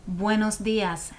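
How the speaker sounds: slow, careful Spanish buenos dias, clear bwenos; model pronunciation. Shown as a demonstration. Teacher models buenos dias for the class to repeat, slow and clear.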